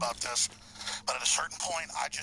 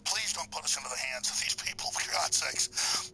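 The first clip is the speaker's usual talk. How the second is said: pleading prayer. Real, not acted. Leads a prayer.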